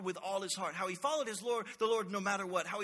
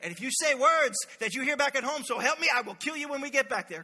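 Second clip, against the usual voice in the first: mock angry threat; 3 semitones higher, 4 dB louder than usual. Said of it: "you're still yelling".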